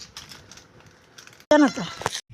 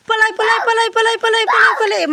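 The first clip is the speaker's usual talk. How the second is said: mock panic; 3 semitones higher, 5 dB quieter, faster than usual. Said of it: "Mariam কি হয়ে গেল?".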